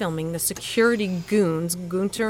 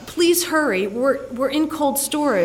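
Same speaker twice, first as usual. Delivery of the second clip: high, panicked plea to the dispatcher; begging them to hurry; frightened rush for help; urgent; 7 semitones higher, 5 dB louder than usual. Acted. Urgent call to 911.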